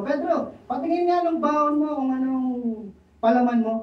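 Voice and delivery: a hint of a curious coworker; Juan asking.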